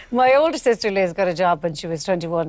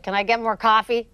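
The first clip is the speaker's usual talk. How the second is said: arrogant passenger; 3 semitones higher than usual. Retold or imitated. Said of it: "loud and arrogant".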